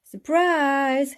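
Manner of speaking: high, loud joyful cry; cried out. A narrator's reading. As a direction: burst out with it. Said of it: "she cried".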